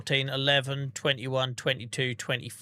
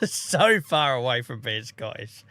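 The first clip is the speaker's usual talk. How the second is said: laughing; 4 dB louder, slower than usual. Real, not acted. Laughing at viewer's accent guess.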